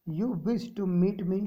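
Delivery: a very slow, deliberate English line in a character's voice. Acted. Teacher voicing the agent to the writer, very slow and deliberate. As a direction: stretch each word out as the character.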